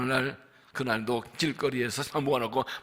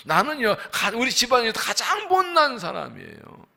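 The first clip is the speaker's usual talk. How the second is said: raised voice, pleading excuses; reluctant Gideon, mildly whining; whiny protest; 3 semitones higher than usual. Acted. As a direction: play Gideon wriggling out of it.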